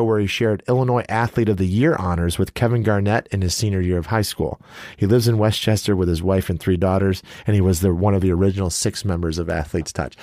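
brisk read-out of a speaker bio; reading a bio aloud. Real, not acted. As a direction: read it out like a formal introduction. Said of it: "I gotta read it for you".

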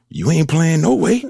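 a hint of a gloating teammate; mock verdict. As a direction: drag it out like a gloating vet.

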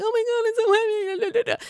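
whiny high-pitched complaining, hammed up; mock whining. Mocking a reality-show guy who whines about a strapped-on belly, whiny and high. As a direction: whine it like a big baby under the weight. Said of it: "He was whining like a little bitch".

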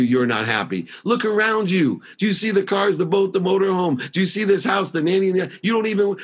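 high, indignant shouting at his wife; reliving the fight, yelling high and outraged. Retold or imitated. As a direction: blow up at her in disbelief. Retold fight with crying wife.

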